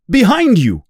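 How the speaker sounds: high, loud cry of warning; warning shout. A narrator's reading. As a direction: yell a warning. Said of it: "cries Hooper".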